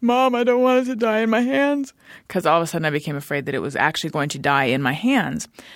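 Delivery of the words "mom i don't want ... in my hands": high, garbled voice as if through a mouthful of vomit. Retelling what they said to mom as a child, as if through a mouthful of vomit. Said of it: "like how someone would be speaking if they're speaking through a mouthful of vomit".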